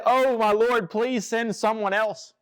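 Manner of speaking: a slow, hammed-up "please, not me" plea; reluctant plea. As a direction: act out a reluctant servant begging off. Moses begging God to be excused.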